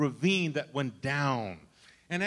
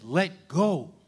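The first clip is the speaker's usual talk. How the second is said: God's voice again; 5 dB louder than usual. Retold or imitated. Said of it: "I said".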